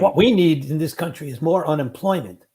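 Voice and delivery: dry sarcastic jab; deadpan, say the opposite of what you mean. Acted. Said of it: "That was sarcasm".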